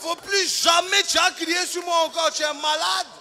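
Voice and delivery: high, loud indignant Ivorian shout; mock-furious Ivorian comeback; Ivorian temper. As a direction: snap back at the officer, offended. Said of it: "mon côté ivoirien qui est ressorti".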